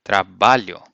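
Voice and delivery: Trabalho as tra-BA-lyo; Portuguese trabalho. Shown as a demonstration. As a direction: model word Trabalho. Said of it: "you say trabalho".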